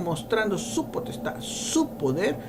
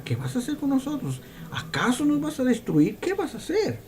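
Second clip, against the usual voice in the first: lightly voiced frightened spirits, pitched up; pleading demons; 6 semitones higher than usual. Preacher voicing the unclean spirits asking Jesus, mildly frightened. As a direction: plead like cornered spirits, a touch higher. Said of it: "Le pregunta".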